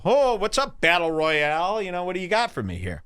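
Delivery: high, teasing mock greeting to an Asian girl; hammed-up high sing-song hello. Greeting a girl he calls Battle Royale, high mock hello. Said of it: "I go".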